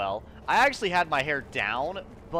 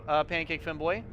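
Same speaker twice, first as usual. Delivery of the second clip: put-on lightly Latin accented greeting; 3 semitones higher than usual. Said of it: "Says in my Latin accent".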